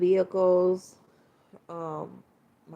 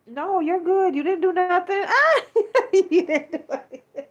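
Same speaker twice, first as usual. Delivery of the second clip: tearful laugh; 11 semitones higher, 7 dB louder than usual. Real, not acted. Reassuring chat, emotional laughing.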